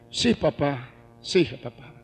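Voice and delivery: respuesta muy baja y suave de hijo regañado; niño sumiso imitado. Retold or imitated. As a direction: imita al niño obedeciendo, apenas en voz baja. Hijo regañado responde al padre. (imitando a un hijo sumiso)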